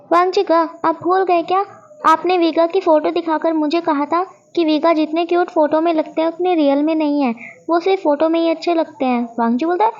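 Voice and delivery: excited accusation. Acted. Shao exposes Wangji's lie in front of everyone, excited. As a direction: spill the secret eagerly, accusing.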